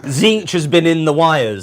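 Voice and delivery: put-on slow Scouse accent; lightly put-on Liverpool accent. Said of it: "That's the Scouse voice".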